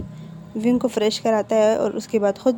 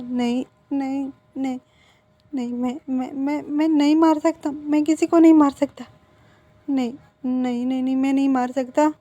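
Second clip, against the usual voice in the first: panicked refusal; 3 semitones higher than usual. Acted. Scared Wing refusing the abortion the uncle demands, panicked. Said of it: "बहुत ज़्यादा panic कर रहा".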